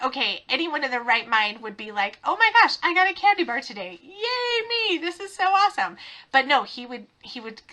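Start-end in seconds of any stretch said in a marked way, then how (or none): 0.0-6.0 mock excited kid. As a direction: ham up a kid thrilled by candy. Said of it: "You're like".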